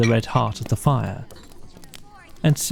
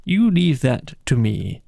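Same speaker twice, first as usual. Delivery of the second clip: masterful. Acted. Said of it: "said the masterful rat".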